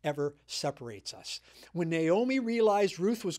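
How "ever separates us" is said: scripture reading. Shown as a demonstration. Pastor reading Ruth's vow aloud, firm proclaiming. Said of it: "Then she says this".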